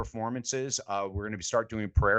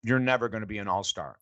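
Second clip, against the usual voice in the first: Moses' blunt putdown; 3 dB louder than usual. Retold or imitated. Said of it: "and he goes".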